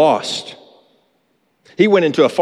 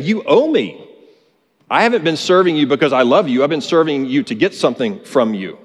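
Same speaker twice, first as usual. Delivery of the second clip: entitled demand. Retold or imitated. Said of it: "The son is basically saying".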